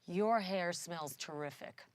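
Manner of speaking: slow, drawn-out creepy compliment; lingering, mildly creepy admirer; creepy hair-sniffer. Retold or imitated. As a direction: savor it slowly, as if breathing in the scent. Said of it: "draw in this really deep breath".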